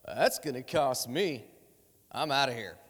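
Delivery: sneak off in a whisper; mock selfish mutter. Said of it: "you just kinda go".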